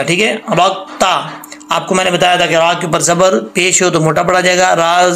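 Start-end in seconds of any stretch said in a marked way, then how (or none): 0.3-1.4 रक्ता slow with a thick रा; heavy ra. Shown as a demonstration. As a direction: stretch रक्ता. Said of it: "रा जो है वो मोटा पढ़ा जाएगा".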